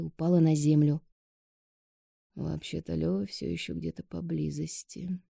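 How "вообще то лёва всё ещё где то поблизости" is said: soft words between kisses. A narrator's reading. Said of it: "прошептал Никита в перерывах между поцелуями".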